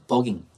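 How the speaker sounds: 버깅 begun with a B, not an F; clear B sound. Shown as a demonstration. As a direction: say "버깅" as "bugging" with a B. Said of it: "비 발음입니다". (버깅을 F가 아닌 B 발음으로)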